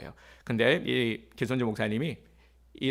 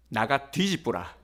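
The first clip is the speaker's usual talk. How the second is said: Gyeongsang dialect. Retold or imitated. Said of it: "경상도 사투리로".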